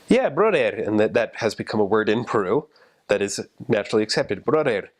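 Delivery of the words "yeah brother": put-on high, swooping hail in a Spanish accent; imitated street greeting. Peruvian guys coming up to greet you, high swooping hail. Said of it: "some guys would come up".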